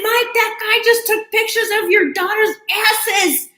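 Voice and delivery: high, slow, urgent yell across the line; screaming to Mike. Retold or imitated. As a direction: shout to a friend far down the queue. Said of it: "I was screaming".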